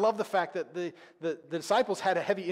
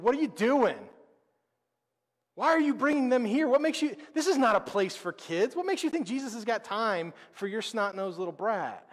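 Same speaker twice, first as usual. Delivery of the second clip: loud and incredulous, pitched up high; exasperated loud scolding; 6 semitones higher, 6 dB louder than usual. Retold or imitated. Disciples scolding the parents for bringing kids, loud and incredulous. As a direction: bark at the parents like they're out of line. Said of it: "They think".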